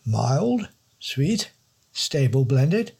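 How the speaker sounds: high plummy don, slowly savouring the words; posh don reading. Acted. The don reading the packet aloud, high and slow. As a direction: read the packet slowly, like wine notes. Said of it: "He read out the other remaining text".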